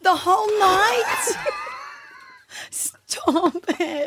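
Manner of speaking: high, wailing sympathy; upset cry. Real, not acted. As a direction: cry out in dismay. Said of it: "like I'm gonna cry for him".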